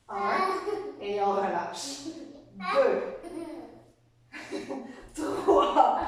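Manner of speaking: giggling through the count; laughing while counting. Real, not acted. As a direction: laugh out the number. Daughter riding on her hips.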